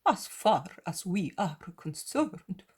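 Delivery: the zealot pleading with his master, anguished. Acted.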